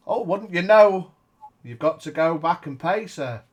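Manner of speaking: silly clown. Acted. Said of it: "Didn't rhyme".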